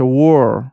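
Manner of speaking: war drawn out as "wor", with an aw vowel; correct English pronunciation. Shown as a demonstration. Teacher corrects the reading of the spelling, correct pronunciation. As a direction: say war slowly, rhyming with "door". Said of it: "تلفظ صحیحش".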